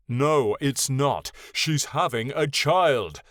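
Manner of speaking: furious and deliberate; rising fury. Acted. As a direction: drag each word out in anger. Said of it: "his voice rising to a furious note".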